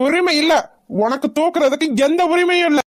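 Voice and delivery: high, sharp furious denial; angry refusal. Acted. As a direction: deny her flatly, voice up high. Mother refuses aunt any right.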